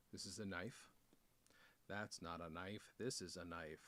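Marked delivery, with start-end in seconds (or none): 1.9-3.8 low, soft mock-Australian accent. Unboxer showing off a knife to viewers, mock Australian accent. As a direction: lightly put on an Australian accent, pitched down. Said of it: "Do you like my Australian accent?".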